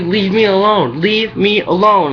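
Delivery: snapping back at a coworker, half re-enacted; retold yelling. Telling a coworker to back off, mild mock yell. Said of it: "in front of the customers and stuff".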